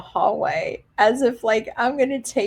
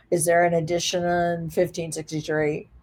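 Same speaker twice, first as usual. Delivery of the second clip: lightly voiced officer, low and level; officer on earpiece; 4 semitones lower than usual. Officer checking a room by earpiece, low and monotone. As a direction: imitate a low radio check-in. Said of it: "he's talking into his little earpiece".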